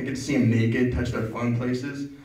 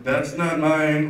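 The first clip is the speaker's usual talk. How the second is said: mock denial; 3 semitones higher, much slower than usual. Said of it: "It's just like".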